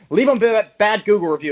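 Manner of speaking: half-joking frustrated threat; laughing threat. Real, not acted.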